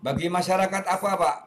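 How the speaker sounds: breaking up over a bad call connection; words cut up by buffering stutter; choppy audio. Real, not acted. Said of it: "Suaranya patah-patah".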